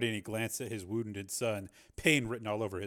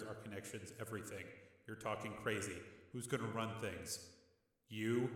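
softer, level calm reasoning; calm reasoning brother; 9 dB quieter than usual. A narrator's reading. Rick reasoning with his hothead brother, quiet and calm. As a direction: talk him down quietly.

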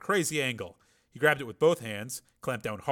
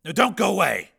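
mocking; 8 semitones higher, 9 dB louder than usual. A narrator's reading. Mocking a trapped captive.

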